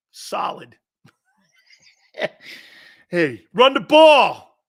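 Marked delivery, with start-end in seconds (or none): 3.1-4.6 slow loud mock fan yell, words dragged out. Angry Eagles fan yells at coaches, slow and loud. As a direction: bellow it like a fed-up fan in the stands.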